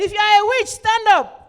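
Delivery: very loud, high, booming, thundering sudden shout. Telling the story of a pastor and a young man sleeping in church, retelling a shout. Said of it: "modulated his voice and shouted".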